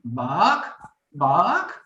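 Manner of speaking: lightly voiced chicken saying bark. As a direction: play the silly chicken barking. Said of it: "the chicken is like".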